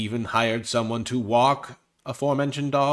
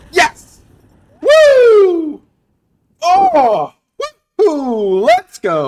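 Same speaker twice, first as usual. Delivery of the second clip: very high, bouncy, swooping cartoon Italian cheer, stretched whoops; 14 dB louder than usual. Playing cards, the speaker cheers a good play in Mario voice. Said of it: "I'm talking like Mario all of a sudden".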